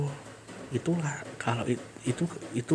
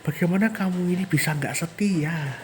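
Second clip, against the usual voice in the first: hurt anger; 3 semitones higher than usual. Acted. Betrayed spirit accusing her unfaithful master, hurt anger. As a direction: demand he see how she feels.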